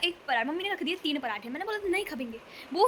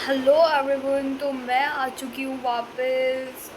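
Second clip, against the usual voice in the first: greeting dragged out slowly; drawn-out vlog intro, stretched words; slow sleepy hello to camera; slow intro take; 4 dB louder, much slower than usual. Shown as a demonstration. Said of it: "Oh my God, ये कौन सा filter है भाई".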